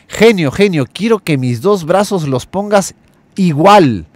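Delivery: put-on a young man begging his wish, all worked up; excited plea. Young man excitedly asking the genie for his wish. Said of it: "el joven emocionado".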